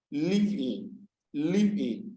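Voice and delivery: "Live in" as two distinct beats each time; teacher sounding out "live in" in two parts; divided into syllables. Shown as a demonstration. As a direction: split "live in" after the v, then repeat. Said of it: "two syllables".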